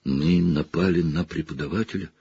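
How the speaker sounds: soft, rising disbelief; girl horrified after attacking a teacher. Acted. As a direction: gasp it out in shock. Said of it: "в ужасе шептала Гермиона".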